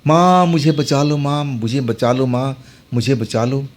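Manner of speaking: put-on a scared boy begging his mother to save him; frightened cry for mother. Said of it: "मैं चिल्लाने लगा".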